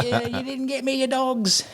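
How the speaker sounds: very high mock yell breaking into laughter; hammed-up holler, held back in volume; retold yelling. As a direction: taunt the enemy in a strained, high-pitched pretend shout. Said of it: "And I was yelling at him".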